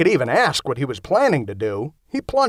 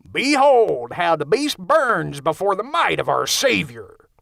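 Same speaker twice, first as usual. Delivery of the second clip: slow, hammed-up bad Southern preacher accent; 5 semitones higher than usual. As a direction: ham up a fake Southern preacher, slowly. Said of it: "he yelled in a bad Southern accent".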